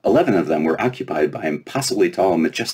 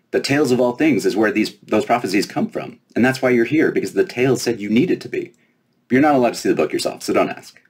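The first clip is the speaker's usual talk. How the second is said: put-on high, bright-eyed fairy girl, teasing; 5 semitones higher than usual. Fairy princess quizzing the giant girl, high and playful. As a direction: play the cocky little fairy, pitched up.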